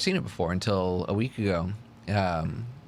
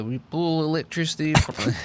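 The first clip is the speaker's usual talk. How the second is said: a hint of Serbian accent; lightly voiced Serbian Tesla; 7 semitones higher, 3 dB louder than usual. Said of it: "Serbian accent?".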